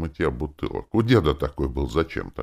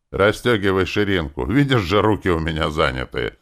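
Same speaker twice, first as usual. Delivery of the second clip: mocking; 3 semitones higher, 4 dB louder than usual. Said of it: "глумливо сказал".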